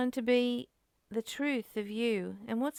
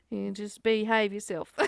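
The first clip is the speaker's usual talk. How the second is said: laughing mock scold; 3 dB louder than usual. Scolding own thoughts playfully.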